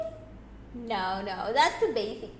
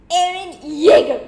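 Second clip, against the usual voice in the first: called out; 4 semitones higher, 11 dB louder than usual. Real, not acted. Calling out character's name.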